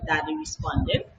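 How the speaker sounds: ordinary delivery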